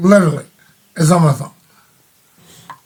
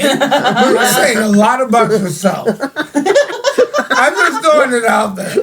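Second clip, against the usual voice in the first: laughing teasing; 3 semitones higher, slower than usual. Real, not acted. Teasing friend amid laughter.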